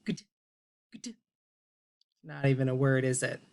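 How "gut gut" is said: got said without its ah as gut; vowel removed. Shown as a demonstration. Teacher to children, saying got without its vowel. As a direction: swap in the short vowel. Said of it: "What would the new word be?".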